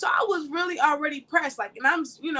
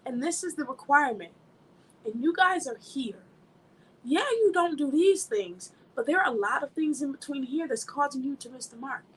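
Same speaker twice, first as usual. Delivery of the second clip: voicing God. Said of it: "God is saying".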